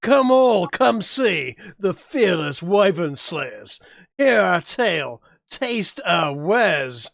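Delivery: loud, drawn-out huckster pitch; carnival barker. Acted. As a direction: sell it like a fairground barker. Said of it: "I go".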